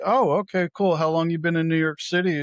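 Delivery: high, quick, upbeat small talk; chatty interest. Retold or imitated. Passenger asking how long driver has lived here, chatty. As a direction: imitate an eager passenger.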